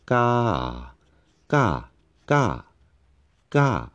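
ga said quickly, rising then dropping; quick falling tone. Shown as a demonstration. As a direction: run the ga steps together fast. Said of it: "Then say it quickly".

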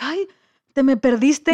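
mock agitation, voice lifted; agitated. Kayaker finally finds her lost swimmer, imitated agitation. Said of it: "toda como que agitada".

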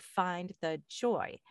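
slow, with "joy" leaned on hard; "Find the joy" with "joy" drawn out and stressed. Retold or imitated. Quoting a friend's post, slowly stressing joy. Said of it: "but the joy was capitalized".

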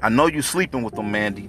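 accusing. Acted. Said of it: "the man said in his rebuttal".

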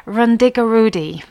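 Rundigarudi said as a rough Welsh guess; Welsh attempt. Shown as a demonstration. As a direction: have a go at Rundigarudi. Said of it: "it sounds something like this".

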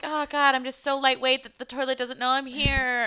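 mock innocence. Acting out fake surprise.

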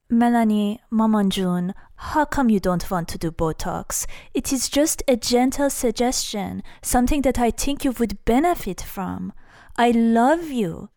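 sweetly pushy mother, lightly voiced; mom impression. Mom gently pushes daughter toward Botox, sweetly pushy. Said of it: "She really sounds more like this".

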